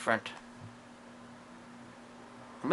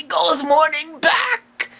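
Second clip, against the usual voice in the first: partner's cheery shout; 9 semitones higher, much slower than usual. Acted. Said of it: "And the partner would say".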